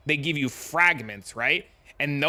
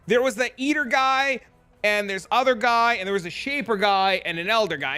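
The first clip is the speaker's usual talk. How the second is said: high goofy voice; 6 semitones higher than usual. Retold or imitated. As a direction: list the bosses in a raised silly voice. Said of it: "And he's like, Well".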